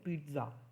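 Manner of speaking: पिज़्ज़ा with a clear t, peetza; पिज़्ज़ा said the Italian way, tz; pronunciation demo. Shown as a demonstration. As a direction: stress the t in पिज़्ज़ा. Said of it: "टी आता है उसमें".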